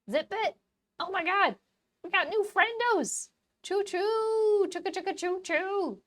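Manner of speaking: high, loud cartoon squeal; excited silly voice thanking the gifters. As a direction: squeak it out like a hyper cartoon critter. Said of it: "do it in a silly voice".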